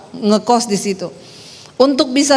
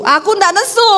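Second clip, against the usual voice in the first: rising Sulawesi protest; 7 semitones higher than usual. Retold or imitated. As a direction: insist you're not angry, rising tune. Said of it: "retold quarrel with husband". (bantahan logat Sulawesi, nada naik)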